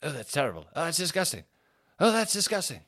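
lightly mimicked appalled dad, rising in pitch; disgusted dad. Dad on the train reacting to the smell, mock disgust. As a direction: build from revolted little "oh"s to high outrage. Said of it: "the dad of the family".

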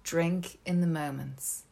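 grand theatrical recital, slow and dramatic; hammy stage actor. Shown as a demonstration. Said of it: "I do it in my acting voice".

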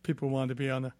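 speaking through hiccups; interrupted by hiccups. Real, not acted. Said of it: "excuse me, I got the hiccups".

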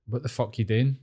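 retold question in an Irish accent. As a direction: lightly imitate an Irishman's challenge. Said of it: "in an Irish accent".

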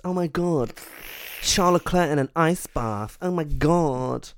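breathless swooning fan; gushing fangirl. Retold or imitated. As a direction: gush like an Instagram fan. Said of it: "Instagram meme people who are just".

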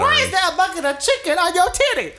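high, fast incredulous voice; shocked friend. Pretend. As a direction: gasp it out in disbelief.

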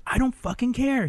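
high-pitched retold outburst; imitating an irritated boyfriend, pitch jumping up; mock exasperation. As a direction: act out a man past caring. Boyfriend snaps in retold quarrel.

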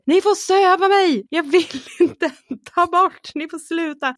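high, loud, panicked yelling; retold panicked yell. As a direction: scream it in panic on the operating table. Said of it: "bara skrek så här". (panikslaget skrik, hög och ljus röst)

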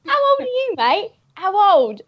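high, pushy mock thug; hammed-up menacing bloke; aggressive thug. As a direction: bark the question at him like a mugger. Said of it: "He's like".

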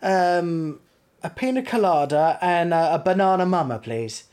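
lightly posh, careful English ordering; polite phone voice. Retold or imitated. British tourist ordering cocktails at the bar, polite phone voice. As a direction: put on a touch of best manners. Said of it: "a polite phone voice".

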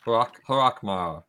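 Hrockmar sounded out slowly; slow, careful Hrockmar; careful pronunciation. Real, not acted. Player slowly sounding out the clan name Hrockmar after the GM. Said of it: "clan name that I can never say".

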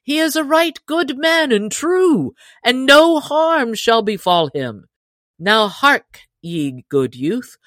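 a hint of a merry outlaw leader inviting him in; booming, good-humoured welcome, lightly played; lightly voiced hearty outlaw chief. Robin voiced in story.

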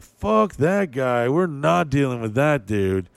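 write someone off, lightly acted; mock dismissive. Friends judging someone they never met, mock dismissive. Retold snap judgment of a stranger.

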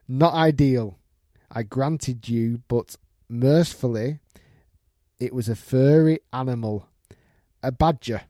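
measured storytelling from an email; story read-out. Acted. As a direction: read it aloud like a tale unfolding. Reads out a listener's email.

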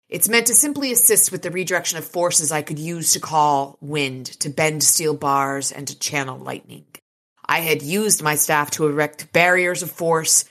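measured, dramatic audiobook reading; story narration. A narrator's reading. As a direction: read the action scene evenly and deliberately.

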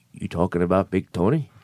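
low, soft tough-guy voice on the phone; gruff caller voice. Retold or imitated. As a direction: growl it like a wiseguy caller.

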